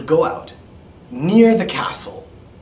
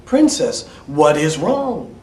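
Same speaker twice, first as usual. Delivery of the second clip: slow, louder call; 5 dB louder than usual. Acted. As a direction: ask it slowly.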